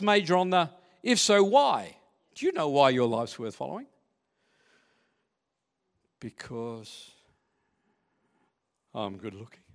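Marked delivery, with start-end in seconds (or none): 6.2-9.6 joking boast. Pretend. Joking aside about himself.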